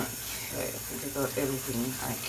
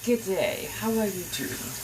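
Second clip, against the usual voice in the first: put-on Australian accent; 4 semitones higher than usual. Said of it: "what's the saying for Australia".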